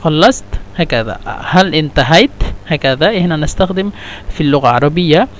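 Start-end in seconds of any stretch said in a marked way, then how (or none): 0.0-0.4 "خلصت" as a question, stopping quickly on the ت; quick-stopped final t. Shown as a demonstration. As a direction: stop short on the final ت of "خلصت". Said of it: "يقف بسرعة".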